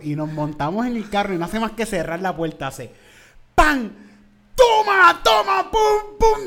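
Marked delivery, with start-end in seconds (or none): 3.6-6.5 high, loud smacking cries; hammed-up mom hitting; mock spanking shout. Mom spanking her son in the car, loud mock smacks.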